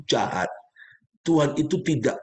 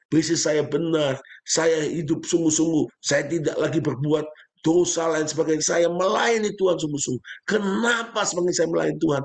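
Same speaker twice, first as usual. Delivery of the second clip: raised, pleading voice of a troubled believer; higher-pitched, insistent complaint; retold complaint; 5 semitones higher than usual. Injured man asking the pastor why God let him fall, pleading. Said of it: "Dan dia ngomong begini".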